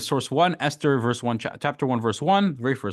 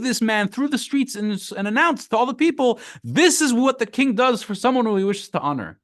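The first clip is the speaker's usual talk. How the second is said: eager Haman; 10 semitones higher than usual. Acted. Haman eagerly proposing his own honor.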